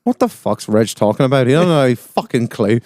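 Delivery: put-on Northern Irish accent, swearing; swearing tirade. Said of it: "Fucking accents are spot on".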